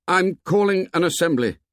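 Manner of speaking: high-pitched announcement; calling out. A narrator's reading. First call to the assembled boys.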